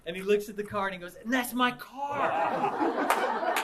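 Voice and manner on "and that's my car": cracking up mid-quote, drawn out very slowly; laughing. Retold or imitated. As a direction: laugh through the punchline. Cat spots his car, retold.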